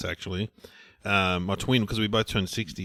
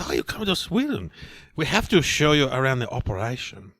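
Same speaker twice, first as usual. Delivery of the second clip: put-on Swedish accent. Acting Eric, Swedish timber man.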